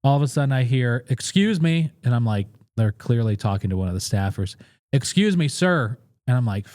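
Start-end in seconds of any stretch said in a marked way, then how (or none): 1.1-1.9 put-on little girl's voice. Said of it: "it's this little girl". 4.9-6.0 put-on little girl's voice. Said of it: "it's this little girl".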